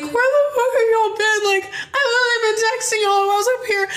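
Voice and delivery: very high mock wailing complaint; crying. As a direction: wail at them through put-on tears. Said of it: "I'm just crying".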